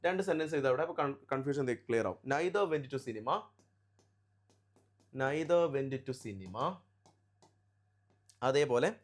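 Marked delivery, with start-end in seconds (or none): 2.3-6.6 word by word, rising at the end; slow dictation. Real, not acted. Teacher writing two sentences for students, slow dictation. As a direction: say it slowly while writing it out.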